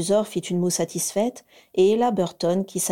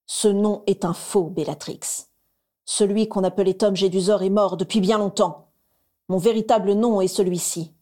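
silky voice. Acted. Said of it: "reprit d'une voix doucereuse".

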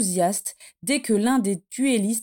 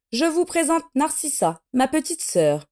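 higher, unsure introduction; a touch of nervousness, pitch raised; unsteady voice; 6 semitones higher than usual. A narrator's reading. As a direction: introduce her without much confidence. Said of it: "d'une voix mal assurée".

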